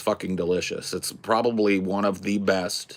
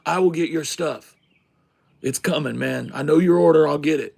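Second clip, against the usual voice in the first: raised, higher retold call; yelling over; 6 semitones higher than usual. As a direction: call out to customers across the diner. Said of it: "he yells over to the people".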